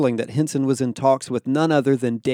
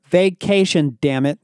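higher, louder angry outburst; barked; 4 semitones higher, 4 dB louder than usual. A narrator's reading. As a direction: bark it, mildly cross. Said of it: "Barrick barked, banging a fist".

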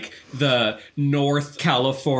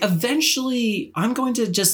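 hopeful self-quote; 10 semitones higher than usual. Retold or imitated. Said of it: "I was like".

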